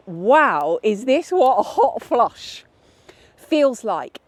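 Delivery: half-laughing at the shock; surprised laugh. Retold or imitated. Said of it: "And I was like".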